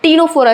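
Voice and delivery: Ctenophora with the C silent, starting on T. Shown as a demonstration. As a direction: say Ctenophora as "teenofora". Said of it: "इस word में सी silent होता है".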